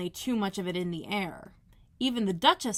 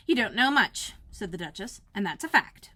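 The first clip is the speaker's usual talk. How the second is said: louder and curt; rude Duchess; 5 dB louder than usual. Acted. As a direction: put her down bluntly.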